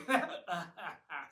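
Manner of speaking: wild cackling laugh, loud; insane laugh. A narrator's reading. Three-headed Hydra laughing madly at the humans, insane cackle. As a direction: cackle like a mad monster. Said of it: "laughs in an insane way".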